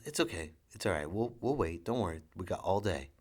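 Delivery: calm her down gently, sweetheart; a touch of a tender father; reassuring dad. Retold or imitated. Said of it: "I was".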